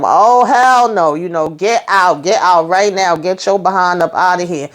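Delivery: angry order. Retold or imitated. Retelling the wife ordering her man out, mock angry. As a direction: throw them out with a big "hell no".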